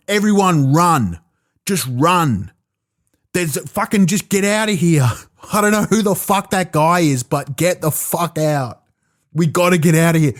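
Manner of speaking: hammed-up urgent warning to flee; mock panic. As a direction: act like you're clearing everyone out in alarm.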